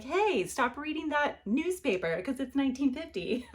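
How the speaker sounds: annoyed nagging. Retold or imitated. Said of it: "And you're like".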